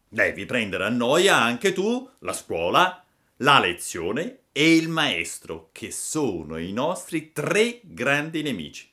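emphatic, swooping delivery, stretching the enemies; schoolboy bully, insistent. Acted. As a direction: lay down the gang's terms. Boys lay down their demand. (monello che detta condizioni)

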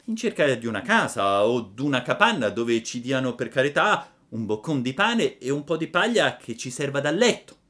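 lightly voiced Pinocchio leading his father; puppet voice. A narrator's reading. Pinocchio answers Geppetto.

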